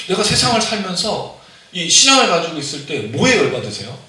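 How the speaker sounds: usual speaking voice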